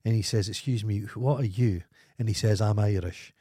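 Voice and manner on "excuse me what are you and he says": ordinary talk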